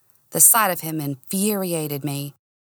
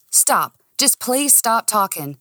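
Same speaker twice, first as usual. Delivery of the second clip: exasperated stop; 4 semitones higher than usual. A narrator's reading. Steely cuts Jackson off.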